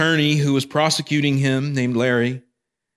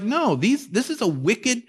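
voicing indignant Jonah; 6 semitones higher than usual. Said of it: "He's like".

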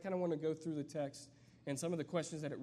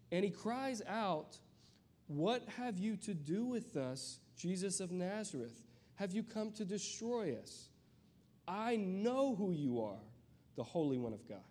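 dramatic scripture reading; 5 semitones higher than usual. Acted. Reading the demon's cry from scripture.

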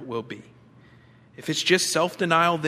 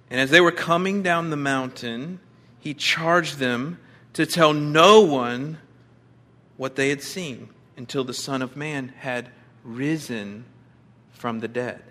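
scripture reading; 3 dB louder than usual. Acted. Rereading verse with emphasis.

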